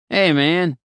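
high, loud, friendly roadie greeting; jovial roadie. Acted. Roadie hailing a stranger for directions, jovial and loud. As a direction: call out cheerfully like a chummy roadie. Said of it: "he said jovially".

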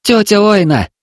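high, loud call for the aunt. Acted. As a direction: shout her name again. Boy calling aunt again.

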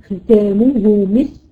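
slow recitation of ختامه مسك with a clear sin; tajweed recitation. Shown as a demonstration. Teacher models the reading for her student. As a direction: read ختامه مسك slowly and let the sin whisper. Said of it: "كويس، عشان حرف السين".

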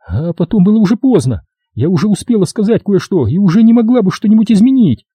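high, hurried confession; frightened widow confessing. A narrator's reading. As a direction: admit it in a rush of fear. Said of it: "сказала". (вдова испуганно признаётся рассказчику)

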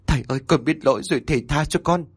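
fast, pleading through tears; wife weeping and begging the master's mercy; tearful plea. Acted. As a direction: beg forgiveness, crying. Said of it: "vừa nói vừa khóc".

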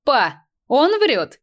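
slow, high, amused outburst; laughing. A narrator's reading. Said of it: "весело рассмеявшись".

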